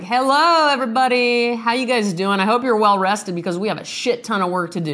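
pep up an imaginary team; cheerful boss greeting. Pretend. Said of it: "I'm like".

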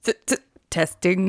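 stuttering start. Pretend. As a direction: stumble on the first sound. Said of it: "There goes that stutter".

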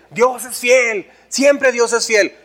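slow, drawn-out pious saying; churchgoers' saying, very slow; drawn-out slogan. Retold or imitated. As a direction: stretch it out like a slogan. Quoting what people say.

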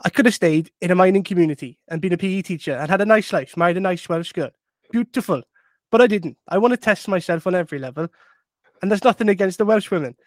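a light hint of a Welsh accent. A lightly voiced Welsh manager quoting himself to reporters in a Welsh accent. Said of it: "I'll do the accent for effect".

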